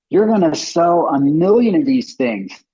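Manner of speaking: high excited prediction; amazed board members. Retold or imitated. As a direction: promise big sales, thrilled. Board members thrilled by demo.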